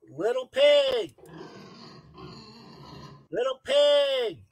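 high, loud wolf calling at the door; big bad wolf. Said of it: "he said".

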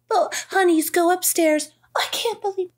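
high, laughing half-sob; laughing so hard it nearly cracks. Real, not acted. Friend laughing through a rant about the movie, nearly crying.

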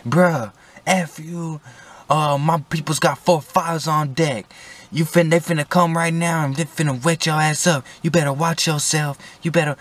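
tough-guy threats from the back seat; cussing at the cop. Retold or imitated. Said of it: "I finally start cussing at him".

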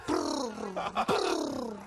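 long mock "brrr"; imitated scrolling noise. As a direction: trill out a drawn-out brrr. Imitated noise while describing scrolling DMs.

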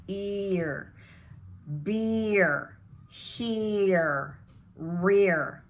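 ear, beer, here stretched into a hard R; long EE plus R. Shown as a demonstration. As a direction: draw out the double E, then curl the R. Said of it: "two E's".

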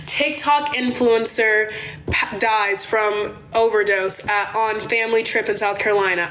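slow, imagined headline read; news headline. Retold or imitated. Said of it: "thinking about the headlines now".

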